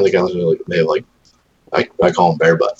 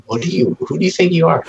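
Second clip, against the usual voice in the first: tough dog voice; 11 semitones higher than usual. Retold or imitated. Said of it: "all the dogs are like".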